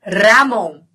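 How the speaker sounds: "Ramon" with a vibrating trilled r. Shown as a demonstration. Teacher repeating the name "Ramon" for students, trilled r. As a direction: roll the r in "Ramon". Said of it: "Vibrante, é com R".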